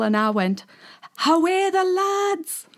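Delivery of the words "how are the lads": slow, stretched Geordie greeting; Geordie accent. Retold or imitated. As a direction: call it out like a Geordie fan. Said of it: "Like that".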